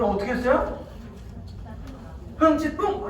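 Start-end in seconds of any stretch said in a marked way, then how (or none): 2.4-3.1 pouty, higher-pitched huff; acted-out sulk; sulky huff. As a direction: huff like an offended child. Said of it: "이렇게 화가 났어요. 삐졌어요".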